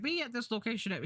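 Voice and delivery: cartoon villain summons. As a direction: read it as a stock bad guy. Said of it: "this is my go-to villain voice".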